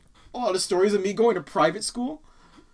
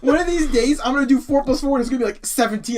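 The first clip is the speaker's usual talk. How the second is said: laughing; 6 semitones higher, 6 dB louder than usual. Real, not acted. Joke about calculator.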